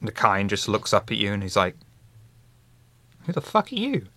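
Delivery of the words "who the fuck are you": high, rude snapping voice; rude patron. Acted. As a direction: bark at the stranger. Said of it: "a stupid voice or a sensible voice".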